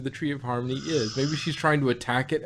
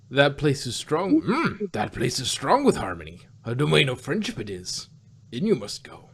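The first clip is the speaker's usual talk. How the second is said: wise little alien sage; lightly voiced Yoda, backwards phrasing; 3 dB louder than usual. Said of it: "you sounded more like a wannabe pirate than a Yoda".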